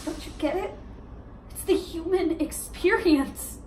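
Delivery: halting, heartfelt reasoning with long pauses; earnest, hurt challenge; pained insistence. Acted. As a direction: press an ex to admit their feelings. Monologue, challenging ex-boyfriend's denial.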